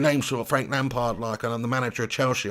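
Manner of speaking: put-on low, half-hearted London accent; Frank Lampard. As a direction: tentatively attempt a nondescript London accent. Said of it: "Do a Lampard accent".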